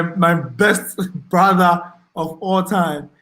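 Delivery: slow, with a laugh breaking through; chuckling while praising him. Real, not acted. Host thanking a loyal viewer, laughing fondly.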